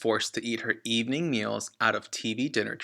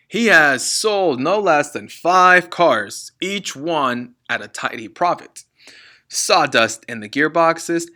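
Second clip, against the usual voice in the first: loud boastful father; 3 semitones higher, 8 dB louder than usual. Acted. Father bragging loudly to his son about cheating buyers. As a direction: crow over the day's takings. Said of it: "addressed his son in a loud voice".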